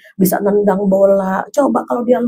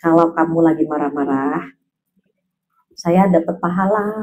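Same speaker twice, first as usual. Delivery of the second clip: low, softer, unruffled husband; calm husband's reply; 5 semitones lower, 4 dB quieter than usual. Acted. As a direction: answer an angry wife serenely. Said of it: "Apa kata Gus Baha?".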